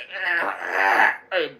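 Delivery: imitated growling laugh, loud; Bill Hader. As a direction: burst out in a mock villain noise. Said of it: "Bill Hader voice".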